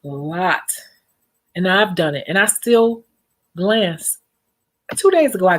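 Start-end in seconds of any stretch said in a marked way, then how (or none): 0.0-0.7 "A lot" breathed out with no voice; secretive voiceless whisper for emphasis. Acted. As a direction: drop to a knowing whisper. Whispered emphasis after a warning.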